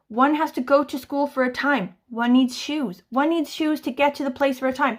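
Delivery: a hint of a stern parent; mock stern parent. Mum telling Spud she needs shoes, mildly mock stern. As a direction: lay down the rule with exaggerated patience. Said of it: "How many times do I have to say".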